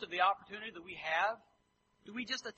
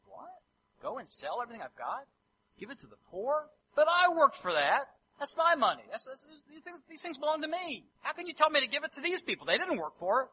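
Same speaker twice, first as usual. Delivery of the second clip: louder and higher, outraged at losing his money; indignant protest; 6 semitones higher, 6 dB louder than usual. Acted. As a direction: push back like it's your hard-earned cash. Rich young man protests giving away wealth.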